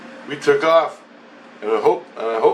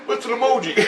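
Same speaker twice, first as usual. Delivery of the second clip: high, put-on puzzled voice; baffled opponent; 11 semitones higher, faster than usual. The voice missing the joke, mock bafflement. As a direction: imitate his clueless question up high.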